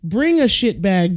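high mock-scolding call to Jessica; high exasperated scolding. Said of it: "It's like".

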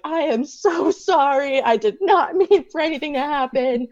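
hammed-up polite Canadian apology; full Canada mode. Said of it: "went full Canada mode".

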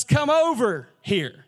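drawn-out order with a pause; slow summons. Retold or imitated. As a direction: slowly call him over, stretching each word. Parrot summons the man back.

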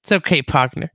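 lightly put-on Texas cowboy talk; mock Texas accent. Host back from Texas teasing co-host, mock Texas accent. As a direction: reassure them with a touch of Texas accent. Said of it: "People didn't talk like that".

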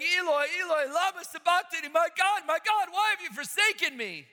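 anguished high cry of Jesus on the cross. Acted. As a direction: cry it out, high and loud, forsaken.

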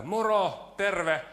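cheery shouted neighbourly hello; calling out hello. Shown as a demonstration. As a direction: call it out from far away. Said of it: "mä huudan pitkälle täällä näitä".

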